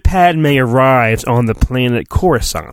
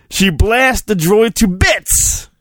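laughing; 5 semitones higher, slower than usual. Real, not acted.

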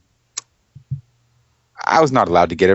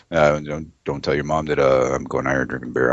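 lower, softer conspiratorial dad; dad's voice; 6 semitones lower, 6 dB quieter than usual. Retold or imitated. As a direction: hush it like a dad hiding his beer. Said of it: "this is my dad talking".

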